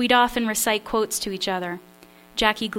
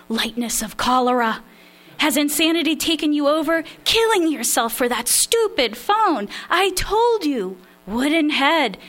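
angry Polish father; 7 semitones higher, 5 dB louder than usual. Acted. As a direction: tear into your daughter in a Polish accent. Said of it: "Dad laid into me with every Polish admonishment".

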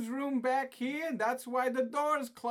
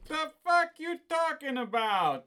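indignant retort; 5 semitones higher, 4 dB louder than usual. Acted. Pizza argument.

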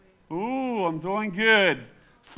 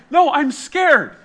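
drawn-out, higher mock whimper; playfully scared, slow and raised; 4 semitones higher, 3 dB louder, slower than usual. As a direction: refuse like a cowardly husband, hammed up. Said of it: "I'm like".

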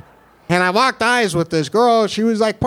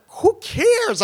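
mocking friends; 14 semitones higher than usual. Friends dismissing him.

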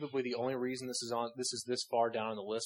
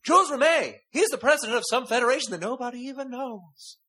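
high, loud announcing shout; excited shout; 11 semitones higher, 9 dB louder than usual. Retold or imitated. A friend loudly hypes the official's name, excited shout. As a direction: belt the name out like big news. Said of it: "And his friend says".

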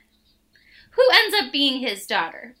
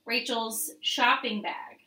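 whispering; 6 dB quieter than usual. Retold or imitated. Game question quoted in a hush.

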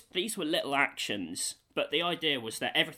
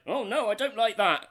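prim villager disapproval; 7 semitones higher, 5 dB louder than usual. Retold or imitated. Homeowner reacting.

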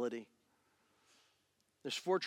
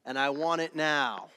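quoting Queen loudly; 7 dB louder than usual. Retold or imitated. Preacher belting the Queen lyric to the church. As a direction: belt it out like the Queen song. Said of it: "The great theologian Queen said".

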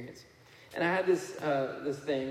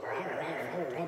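rah-rah noise of a packed room talking; imitated crowd roar. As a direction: mimic a roaring babble of chatter. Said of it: "all of a sudden there was a roar".

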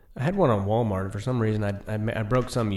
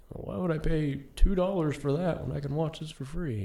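mock whiny customer; 6 semitones higher than usual. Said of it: "people are always like".

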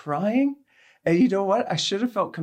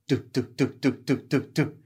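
imitated rolling noise; 5 semitones lower than usual. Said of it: "I hear this noise coming down the aisle".

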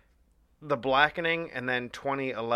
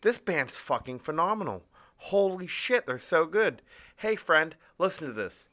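imitating a hyped fan; 6 semitones higher than usual. Excited fan urging a friend to listen, in a gushing voice. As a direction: play the newly converted fan, mock raving. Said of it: "you're like".

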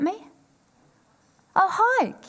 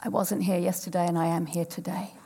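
cheeky tumor voice; 2 semitones lower than usual. Acted. Tumor announcing itself to the speaker, chirpy then whispered. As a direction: play the tumor popping up to say hello. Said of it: "a three centimeter tumor going".

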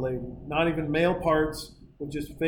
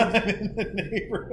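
laughing; 2 semitones higher than usual. Real, not acted. Repeating the boast, laughing.

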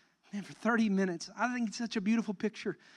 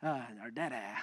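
put-on toddler words; 9 semitones lower, 9 dB quieter than usual. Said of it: "he knows how to say".

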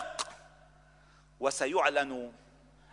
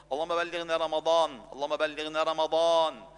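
intensified plea. Acted. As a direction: beg to reach رمضان, swelling with longing.

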